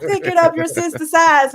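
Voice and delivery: high, loud mock ranting; hammed-up ranting catchphrase; imitated rant. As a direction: mimic a ranter at full volume. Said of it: "and he's ranting".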